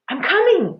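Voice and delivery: high, loud call across water. A narrator's reading. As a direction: call out to reassure. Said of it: "Minley called".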